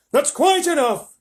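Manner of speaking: high, loud, drawn-out command; shopkeeper's shout. A narrator's reading. Shopkeeper breaks up the bidding, shouting. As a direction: put a stop to it loudly. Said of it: "the fat shopkeeper shouted".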